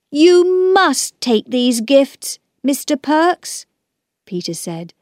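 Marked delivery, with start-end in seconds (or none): 0.1-3.7 earnest insistence. A narrator's reading. Child urges man to accept gifts.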